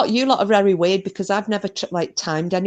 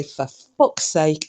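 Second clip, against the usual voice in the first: Scottish swear; 3 semitones lower, slower than usual. Retold or imitated. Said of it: "hearing a Scot say".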